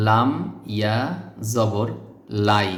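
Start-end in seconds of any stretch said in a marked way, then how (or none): 2.5-2.7 লাই ending in a clear i glide; model pronunciation. Shown as a demonstration. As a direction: say লাই crisply. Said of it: "এটাকে লাম বলতে হবে". (লাই স্পষ্ট)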